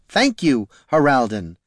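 firmly cutting him off; a firm, dismissive thanks, starting high and falling. Acted. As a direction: shut him down politely. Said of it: "much more firmly".

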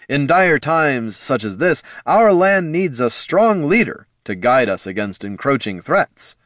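a hint of a noble knight; lightly voiced earnest paladin; gallant knight. A narrator's reading. Champion speech.

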